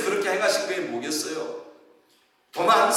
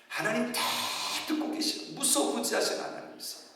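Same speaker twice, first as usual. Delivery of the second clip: hushed, much softer, half whispered; 7 semitones higher, 10 dB quieter than usual. Acted. Pastor hushing to stress that God hears everything, softly.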